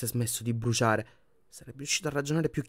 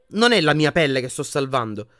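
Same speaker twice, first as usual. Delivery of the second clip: icy; 3 semitones higher, 8 dB louder than usual. A narrator's reading. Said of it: "rispose gelido Harry".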